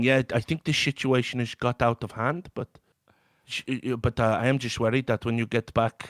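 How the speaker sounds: put-on Dutch-like accent. Retelling a phone call from Lauder at the hotel, impersonating Lauder with an accidental Dutch accent. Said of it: "I don't know why he's Dutch".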